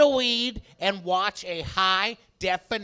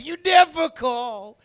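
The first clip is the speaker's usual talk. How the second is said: guilt-tripping Jewish relative; 5 semitones higher, 3 dB louder, slower than usual. Retold or imitated. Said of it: "like my Jewish family says".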